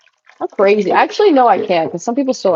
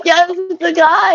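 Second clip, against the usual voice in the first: slow insistent; 10 semitones higher, slower than usual. Retold or imitated. Retold answer to coworkers.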